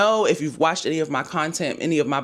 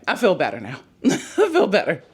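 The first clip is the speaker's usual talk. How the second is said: laughing relief. Real, not acted. Relieved after budget explanation.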